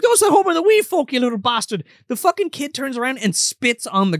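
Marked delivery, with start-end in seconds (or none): 0.0-1.8 put-on high, fast, furious old man scolding a kid; angry grandpa. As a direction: snap at the brat like a cranky grandfather. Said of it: "he's like".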